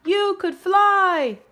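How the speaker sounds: high, loud, slow taunting shout; drawn-out high teasing yell; mocking yell. A narrator's reading. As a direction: jeer it out like a schoolyard bully. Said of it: "they would yell".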